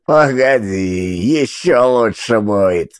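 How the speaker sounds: slow, laughing with a changed voice; sly laughing. Acted. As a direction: chuckle knowingly at the drugged woman. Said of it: "хохотал Толстяк".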